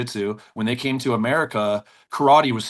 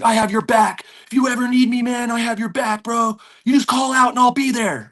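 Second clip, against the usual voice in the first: high, loud, fired-up vow; eager promise; 10 semitones higher, 3 dB louder than usual. Retold or imitated. Calmed stranger promising to back up the instructor, excited. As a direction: swear loyalty up high and loud. Grateful stranger pledging loyalty.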